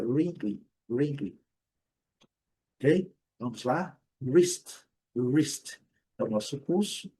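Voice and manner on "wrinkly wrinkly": "Wrinkly" strong first, distinct second syllable; both syllables clear. Shown as a demonstration. Teacher repeating wrinkly, both syllables distinct. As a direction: stress "Wrinkly" up front, keep "-ly" clear. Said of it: "a segunda também bem característica".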